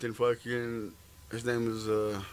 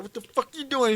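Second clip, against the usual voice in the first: retold angry challenge; 11 semitones higher, 4 dB louder than usual. Sergeant confronts him, acted out.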